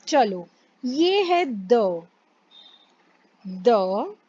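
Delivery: "द" said slowly as French tr sound; French trois sounds. Shown as a demonstration. Teacher sounding out trois for the class. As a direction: draw out "द" as the start of trois. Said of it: "तो आर को ह pronounce करना है".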